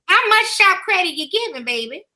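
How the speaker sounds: church mother giving out announcements; lightly put-on church mother, unhurried and folksy; good mother voice. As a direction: read the notices like a church mother addressing her babies. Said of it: "put on my good mother voice".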